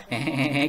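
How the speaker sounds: a light sheepish giggle mid-sentence; giggly chuckle. Shown as a demonstration. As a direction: giggle it off casually. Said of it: "sambil nyengkesan".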